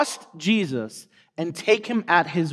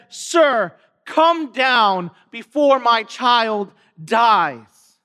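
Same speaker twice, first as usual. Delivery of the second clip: slow, drawn-out plea from a desperate father; desperate cry; much slower than usual. Retold or imitated. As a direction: voice a dad's urgent appeal, stretching the words. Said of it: "the cry of desperation from the dad".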